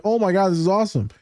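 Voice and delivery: quick fan-like gush; excited reaction. Retold or imitated. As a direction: relive a starstruck thrill. Recounts reaction to retweets.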